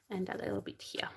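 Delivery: a quick, breathy whispered aside. Shown as a demonstration. Repeats the phrase, now whispered.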